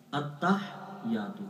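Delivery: التحیات very slow with the ha swallowed; mispronounced on purpose. Shown as a demonstration. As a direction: show the wrong التحیات, ha dropped. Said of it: "غلط". (التحیات غلط تلفظ، ہا کے بغیر)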